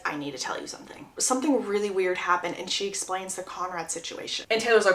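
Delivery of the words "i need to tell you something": hushed confession. Retold or imitated. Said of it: "Belly turns to Taylor and says".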